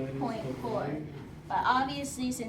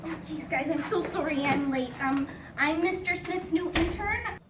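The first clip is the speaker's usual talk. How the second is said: flustered, apologetic new intern voice; a fumbling late intern; eager intern; 5 semitones higher, 5 dB louder than usual. Acted. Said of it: "I make a pretty convincing woman".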